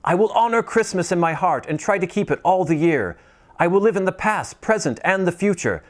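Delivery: put-on high, pleading old man voice; pleading Scrooge. Scrooge pleading with the silent spirit, high and desperate. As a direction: beg the spirit for mercy.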